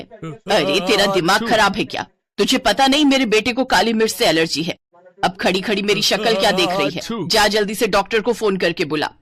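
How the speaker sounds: scolding mother-in-law, restrained anger; angry mother-in-law. Acted. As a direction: scold the daughter-in-law crossly. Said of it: "Alka की सास जानकी गुस्से में आ जाती है". (सास की गुस्से भरी डाँट)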